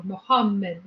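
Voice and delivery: "Muhammad" with the doubled m held long; lengthened consonant. Shown as a demonstration. Explaining gemination in Arabic, lengthened consonant. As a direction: linger on the middle m of "Muhammad". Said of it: "You just say it longer".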